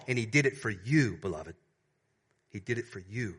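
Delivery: tender appeal. Acted.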